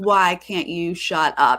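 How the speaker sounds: ordinary delivery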